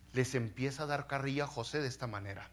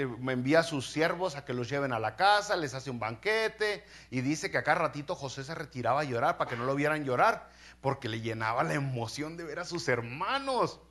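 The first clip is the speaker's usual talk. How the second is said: ordinary talk, nothing marked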